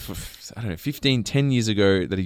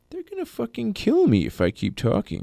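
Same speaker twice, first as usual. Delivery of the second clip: high, hushed panicked thought; imitated alarm; 10 semitones higher, 6 dB quieter than usual. Dad realising his friend may be a spy, mock alarm. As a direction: pitch way up but keep it soft.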